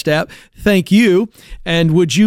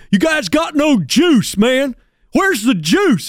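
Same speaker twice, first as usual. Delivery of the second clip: lightly voiced coach ripping the team, higher-pitched; Benny Polk; 6 semitones higher, slower than usual. Coach to flat team in the locker room, mock ripping. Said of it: "That's how he said it".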